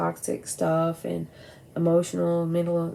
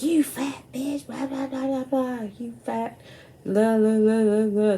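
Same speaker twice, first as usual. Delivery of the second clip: mocking the nasty sister; 6 semitones higher, 3 dB louder than usual. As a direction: sneer it like the bratty girl next door. Retelling neighbours' abusive quarrel.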